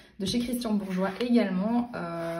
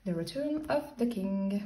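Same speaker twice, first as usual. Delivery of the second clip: English book titles in a French accent; French speaker carefully saying English titles; 3 semitones higher than usual. Real, not acted. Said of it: "Désolée pour mon accent anglais".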